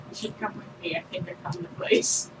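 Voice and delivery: soft, hushed, half-whispered invitation; whisper in ear. Acted. Player kneeling by a friend to share a secret, whispering. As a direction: murmur it privately, dropping the volume. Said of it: "Whisper in your ear".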